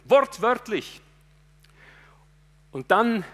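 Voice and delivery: fervent sermon voice, rising and pushing; preaching at full force. Acted. Preacher driving home his sermon, fervent preaching. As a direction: preach it to the congregation with fire.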